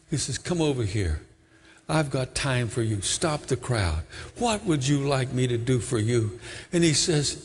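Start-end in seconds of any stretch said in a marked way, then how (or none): 0.4-6.4 gentle Jesus. Acted. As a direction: speak to him like a kind healer. Jesus speaking to Bartimaeus.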